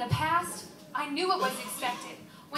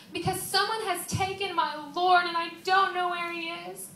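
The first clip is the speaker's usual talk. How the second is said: higher, anguished reply; acted distress; 4 semitones higher than usual. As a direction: explain the loss, close to tears. Tearful account of missing Lord.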